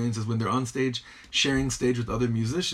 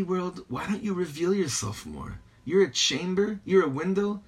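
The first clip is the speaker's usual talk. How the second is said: higher-pitched acted appeal; Rebbe addressing the universe; 7 semitones higher than usual. Rebbe talking to the universe, mildly pleading. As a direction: plead lightly with the world as the Rebbe. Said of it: "he's talking to the universe".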